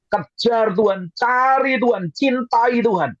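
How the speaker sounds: high, drawn-out preacher's appeal; urgent exhortation. Real, not acted. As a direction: press each command, high and stretched. (seruan khotbah yang mendesak, nada tinggi)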